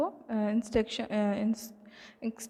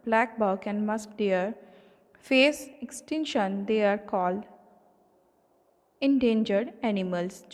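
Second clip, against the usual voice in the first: slow, deliberate read-aloud of a list; slow textbook reading; much slower than usual. Acted. Teacher reading endangered animals list to students, slow and deliberate. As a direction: spell it out word by word for the class.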